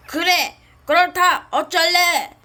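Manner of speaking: loud taunting reply; defiant. Acted. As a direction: challenge them, loudly. Dark lord defiantly answers hero.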